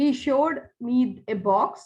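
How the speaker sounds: slow, deliberate, read-out delivery.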